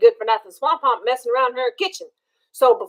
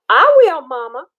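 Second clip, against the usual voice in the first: Liza Lou's voice; 4 dB louder than usual. Acted. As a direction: sing out a quick cheerful yes. Liza Lou answers mama.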